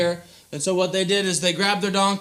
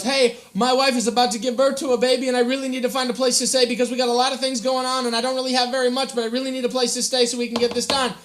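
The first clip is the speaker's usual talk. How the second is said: pleading Joseph; 4 semitones higher, faster than usual. Acted.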